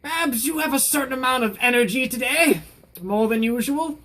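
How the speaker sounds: put-on high-pitched elderly British lady; old British woman. Talking to the stuffed cat Babs, old British woman. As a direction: put on a quaint old Englishwoman's voice. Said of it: "have to have that voice".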